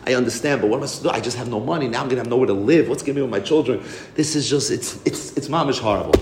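soft, hushed plea of a widow in tears; a hint of tearful begging, kept quiet; widow pleading while crying. Widow begs the Rebbe for help, softly tearful. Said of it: "and she starts crying".

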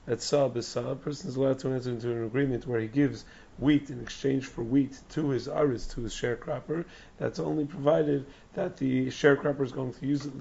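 hoarse, strained lost voice; straining through a lost, hoarse voice. Real, not acted. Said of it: "I lost my voice".

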